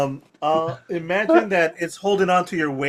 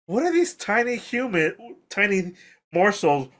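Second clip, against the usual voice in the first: monster voice; 4 semitones higher than usual. Acted. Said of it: "It's like".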